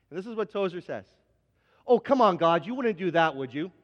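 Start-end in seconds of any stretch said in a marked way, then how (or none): 1.9-3.7 mock disbelief. Tozer's disbelieving prayer to God.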